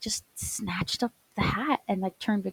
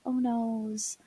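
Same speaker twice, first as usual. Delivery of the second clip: performative oh no; 4 semitones higher than usual. Retold or imitated. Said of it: "after a few performative".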